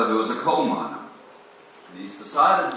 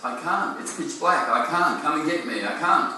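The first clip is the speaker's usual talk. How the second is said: put-on higher, mildly panicked little boy; a scared kid frozen in the dark, lightly played; understated child's fear, pitched up; terrified child; 6 semitones higher than usual. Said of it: "literally terrified".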